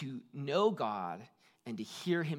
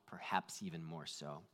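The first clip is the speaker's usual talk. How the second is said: whispered aside; 10 semitones lower, 11 dB quieter than usual. Real, not acted. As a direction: drop into a whisper. Aside after a sermon point.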